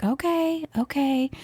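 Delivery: high, gentle hushing "okay"; retold soothing. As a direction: softly placate an upset child. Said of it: "trying to soothe him".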